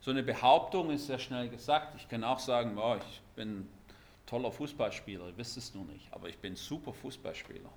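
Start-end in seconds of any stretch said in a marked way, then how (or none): 2.8-7.7 a soft mock brag; lightly hammed-up bragging; mock boasting. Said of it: "dass ich ein bisschen übertrieben habe".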